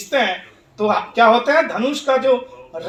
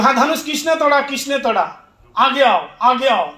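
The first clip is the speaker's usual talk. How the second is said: mock-angry challenge, pitched up; 3 semitones higher, 3 dB louder than usual. Sage orders the bow-breaker to step forward, mock anger. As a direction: imitate a furious sage calling out the culprit. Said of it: "क्रोधित करके".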